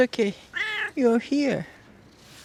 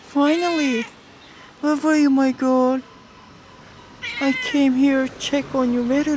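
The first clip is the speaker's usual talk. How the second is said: loud, high, gushing hello to a long-missed cat; excited pet greeting; 3 semitones higher, 3 dB louder than usual. Real, not acted. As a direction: call out to her like a pet you missed. Greeting her cat after months.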